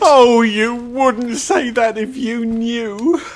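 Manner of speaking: slow high wail of guilt; a guilty fawn near sobbing; tearful lament. Acted. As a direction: moan it out through tears. Fawn confessing in tears.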